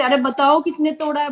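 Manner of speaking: high-pitched demo yell of a question; mock shout. Shown as a demonstration. Showing how she would shout at a housemate. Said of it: "बताओ कि मैं चिल्ला रही हूँ".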